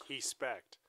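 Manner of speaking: he spect said slowly, the r dropped into an h sound; mock Portuguese respect. Mocking gym guys who fake a Brazilian accent, slow. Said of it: "If you say he spect in the academy".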